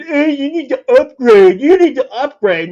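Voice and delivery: mock pushy app pop-up; mocking nag voice. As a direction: parrot the annoying upgrade prompt. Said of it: "With their stupid".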